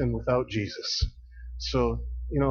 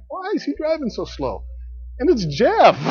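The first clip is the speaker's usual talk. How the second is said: mock annoyed driver; 11 semitones higher, 3 dB louder than usual. Mocking annoyed drivers on road.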